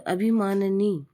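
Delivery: अभिमाननी slowly, with a drawn-out final नी; syllable spelt out. Shown as a demonstration. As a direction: stretch अभिमाननी to expose the नी. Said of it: "नी होगा इसमें". (अभिमाननी, आख़िरी 'नी' खींचकर)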